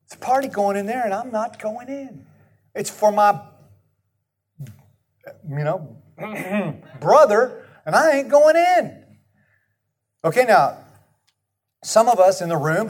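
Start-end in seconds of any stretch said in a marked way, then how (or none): 0.0-9.0 sulky refusal. Acted. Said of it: "he would not go in".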